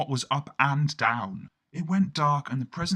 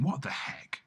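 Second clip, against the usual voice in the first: breathy bewildered whisper; 7 dB quieter than usual. Acted. To himself atop the crane, a puzzled whisper. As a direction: hush it, puzzled.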